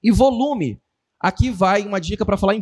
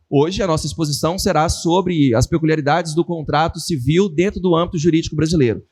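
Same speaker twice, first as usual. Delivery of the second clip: monotone lecturer; 4 semitones lower than usual. Retold or imitated. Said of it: "Ele falou trinta e cinco minutos assim".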